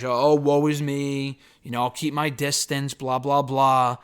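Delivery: drawn-out, half-hearted lament; mock crying. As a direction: imitate a self-pitying complaint, stretching the words. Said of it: "she kinda cries about".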